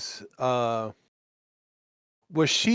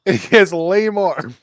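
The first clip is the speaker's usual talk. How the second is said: laughing; 4 semitones higher, 8 dB louder than usual. Real, not acted. Laughing at the lame-armed enemy.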